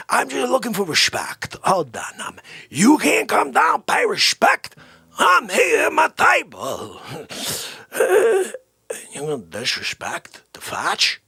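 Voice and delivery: a loosely done Dice Clay, pushy and demanding respect; Andrew Dice Clay impression. As Dice Clay character guarding his table, a light tough-guy voice. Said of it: "Dick Foce is Andrew Dice Clay".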